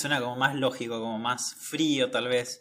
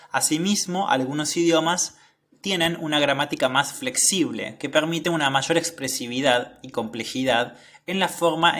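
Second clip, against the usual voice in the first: measured article reading with emphatic phrase openings; slightly lifted, careful read-aloud voice. Acted. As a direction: read the study out clearly, phrase by phrase. Reads study aloud.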